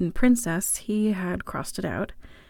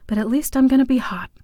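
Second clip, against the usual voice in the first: brighter and quicker, pleased; excited; 5 semitones higher, 6 dB louder, faster than usual. A narrator's reading. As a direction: land the joke with glee. Punchline, louder and faster.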